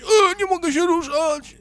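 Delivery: mock panicked child voice. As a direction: pipe up like a frozen kid spotting a bear. Voicing paralysed children.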